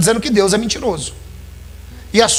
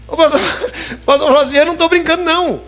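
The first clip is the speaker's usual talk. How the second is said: laughing while retelling; 7 semitones higher, faster than usual. Real, not acted. Preacher laughing as he tells the church the punchline. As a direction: laugh through the punchline of the story.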